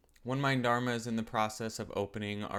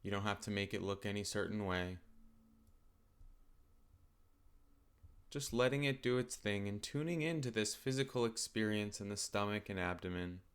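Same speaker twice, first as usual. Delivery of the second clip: calm, unhurried meditation guidance with long pauses; guided meditation. Acted. Teacher settling listeners into open awareness of the body, calm guided meditation.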